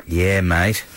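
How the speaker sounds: light Australian accent on mate. Real, not acted. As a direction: say it with a casual Australian twang. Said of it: "talking in an Australian accent".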